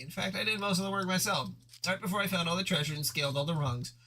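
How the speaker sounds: boastful Vriska. Acted.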